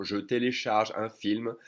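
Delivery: «je télécharge un film» with je a separate syllable; full form. Shown as a demonstration. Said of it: "you can totally say".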